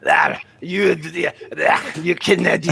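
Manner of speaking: put-on a light Québécois accent on the clerk; a lightly voiced French-Canadian clerk; mock French-Canadian accent. A clerk answers the customer, in a mild Québécois accent. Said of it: "they're like".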